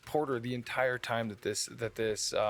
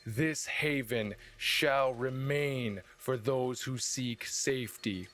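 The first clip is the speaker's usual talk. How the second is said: rousing speech. Acted. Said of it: "and he would go".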